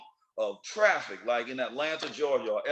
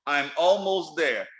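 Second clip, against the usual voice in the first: repeated slowly; slower than usual. Shown as a demonstration. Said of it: "Let me say that again".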